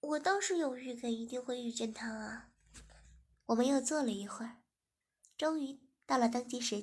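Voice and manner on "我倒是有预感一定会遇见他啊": pouty, breathy half-whisper; pouting. Acted. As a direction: sulk it out under your breath. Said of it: "诗雅嘟着嘴". (嘟着嘴小声说)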